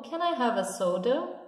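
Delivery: "have a" joined as "hava" before "soda"; linked model sentence. Shown as a demonstration. Teacher models the linked sentence for students. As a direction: run "have a" together as one. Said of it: "eu diria algo como".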